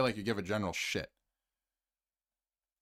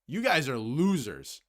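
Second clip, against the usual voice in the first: imitated coach scolding; slower than usual. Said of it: "kicked the garbage can, and said".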